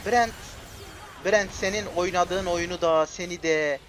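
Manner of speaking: loud, high, slow raging curses; furious rant. Real, not acted. Streamer raging at teammate Brent for not ulting, loud furious rant. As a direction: rage at your teammate.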